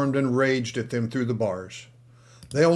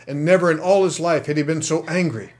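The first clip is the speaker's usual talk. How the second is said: louder, higher, building to angry; building anger; 5 semitones higher, 7 dB louder than usual. A narrator's reading. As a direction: let the anger swell through the line. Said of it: "repeated sentence, building".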